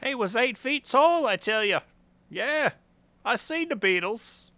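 hammed-up Liverpool accent; lightly faked English accent; mock British accent. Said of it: "My accent sucks".

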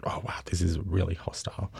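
softly, as if to oneself; quietly stunned aside; hushed inner thought. Retold or imitated. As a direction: drop to a near-whisper of dismay. Retelling own shocked inner thought.

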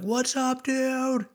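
be a goofy dog greeting its owner; happy dog voice. Retold or imitated. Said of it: "most dogs are gonna be like".

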